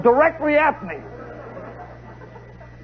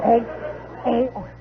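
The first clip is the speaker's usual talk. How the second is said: tag. Retold or imitated. Imitates the sousaphone heard afar.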